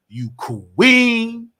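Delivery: loud and high, insisting; fast, high-pitched yelling rant; heated shout. Real, not acted. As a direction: shout it at the critics.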